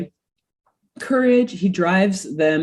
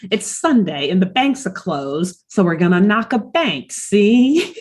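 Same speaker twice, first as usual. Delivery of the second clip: lightly hammed-up old-timey gangster accent; Hal. Gangster toe lays out a bank heist, mock thirties mobster accent. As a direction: imitate a thirties mobster, tagging on that "see". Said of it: "nineteen thirties gangster accent".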